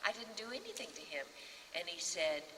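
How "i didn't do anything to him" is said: 1 retold tearful protest. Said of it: "I was crying away".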